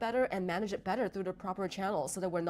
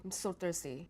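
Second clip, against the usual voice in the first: "I'm so thirsty" low and flat, softer; flat low take; 3 semitones lower, 5 dB quieter, slower than usual. Shown as a demonstration. Showing viewers flat pitch on "I'm so thirsty". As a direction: mumble "I'm so thirsty" without interest. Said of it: "you can hear the difference in the meaning".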